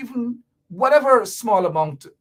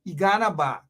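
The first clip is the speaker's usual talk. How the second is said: with passion; 2 semitones lower than usual. Shown as a demonstration. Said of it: "you gotta say it with passion".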